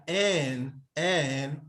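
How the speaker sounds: "en" drawn out, rising and then falling; perispomenon demo. Shown as a demonstration. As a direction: stretch "en" up and down. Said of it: "So you say like".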